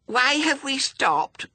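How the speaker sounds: put-on slow, very high little-girl demand. A narrator's reading. Little suspect questions her tired torturers, demanding. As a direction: complain loudly in a piping child voice. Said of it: "demanded the suspect".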